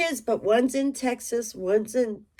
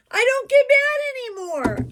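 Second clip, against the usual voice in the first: laughing; 13 semitones higher, 4 dB louder than usual. Real, not acted. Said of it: "now I cry all the time".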